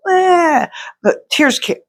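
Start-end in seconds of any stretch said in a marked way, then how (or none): 0.1-0.7 mock sob. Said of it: "I wasn't crying like".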